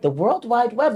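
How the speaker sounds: high incredulous question into amused correction; mock bafflement, pitch climbing; retold confusion tipping into laughter; puzzled guess.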